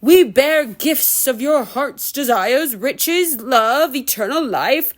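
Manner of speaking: slow, lightly voiced honeyed promise; sweet ogre voice. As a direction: tempt them slowly with a sweet voice. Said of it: "It was the sweetest voice I'd ever heard".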